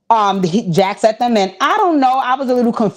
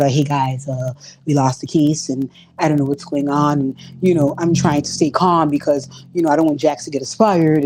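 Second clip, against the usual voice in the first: mock whiny snitch; 6 semitones lower than usual. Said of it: "he rats to the partners".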